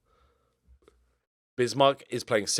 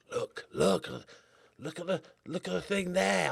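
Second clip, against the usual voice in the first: excited pointing; 8 semitones higher, 4 dB quieter than usual. Real, not acted. Pointing at replay.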